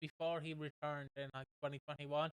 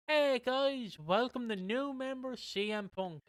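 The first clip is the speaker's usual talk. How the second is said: wrestler promo voice; 7 semitones higher, slower than usual. Retold or imitated. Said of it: "Elijah Burke goes".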